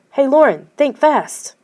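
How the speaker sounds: loud, high playful shout. A narrator's reading. Girl about to throw a snowball at Lauren, loud playful shout. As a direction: call out to catch her off guard. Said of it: "Suddenly, she shouted".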